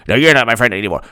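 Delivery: quick comeback in a low voice. Acted. Other friend insists too, low mock huff. Acted quarrel, answering retort.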